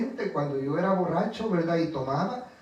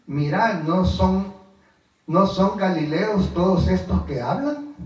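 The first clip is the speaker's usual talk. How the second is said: exclamación leída; 5 dB louder than usual. Acted. Reads the crowd's astonished cry.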